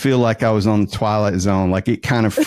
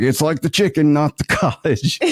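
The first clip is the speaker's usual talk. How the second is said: higher-pitched Southern insistence; Southern accent; 5 semitones higher than usual. Retold or imitated. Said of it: "with my Southern accent".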